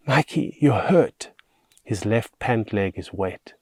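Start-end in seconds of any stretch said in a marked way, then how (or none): 0.1-1.3 higher, worried exclamation; alarmed concern. A narrator's reading. Girl finding the boy hurt, alarmed. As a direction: voice rising with worry. Girl discovers boy's injury.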